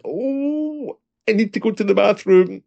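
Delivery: high, urgent panicky squeak; a man bursting for the bathroom, pleading inwardly; desperate inner thought. Retold or imitated. Polite Brit at the bar thinks in a high, panicky rush.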